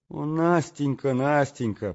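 inner exclamation. Acted. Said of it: "подумал я".

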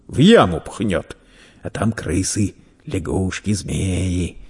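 lightly voiced menacing merchant; a touch of stern relish; threatening merchant. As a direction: frighten the boy, building to the final threat. Merchant hushes and threatens boy.

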